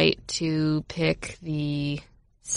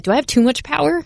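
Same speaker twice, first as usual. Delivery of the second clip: mock grandiose question; 9 semitones higher than usual. Retold own mock thought.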